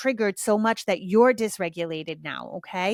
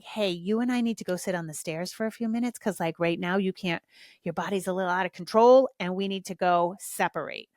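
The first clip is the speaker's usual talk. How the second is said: calm gentle tone. Shown as a demonstration. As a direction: talk the kid down to the stairs gently. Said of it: "a lot of it is tone".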